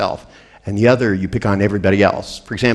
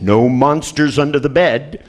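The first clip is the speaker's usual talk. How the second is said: reassuring dad; 5 semitones higher than usual. Retold or imitated. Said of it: "looked under the bed and said".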